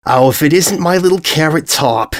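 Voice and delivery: high, sing-song call across the square; mother calling out her pet name with delight; gushing mother greeting. Acted.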